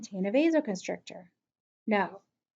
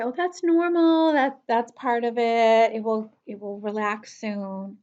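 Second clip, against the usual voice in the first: calm, reassuring; 4 dB louder than usual. Acted. Dental clinician to a patient with a racing heart, calm and reassuring. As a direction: soothe them with stretched-out words. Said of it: "just speak in a calm, reassuring tone".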